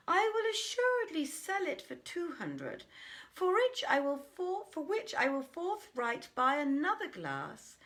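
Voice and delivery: lightly voiced dreamer, rising with excitement; a hint of a man carried away by his own daydream; daydreaming brother. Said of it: "fell to musing and said to himself".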